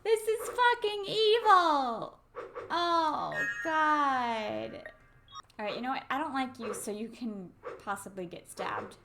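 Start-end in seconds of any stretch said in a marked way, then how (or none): 0.0-4.7 higher, louder, slow yell; loud laughing outrage; outraged yell. Real, not acted. Outraged at game.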